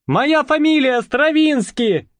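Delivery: high, slow call, stress on моя; calling after them. A narrator's reading. Calling after fleeing pair.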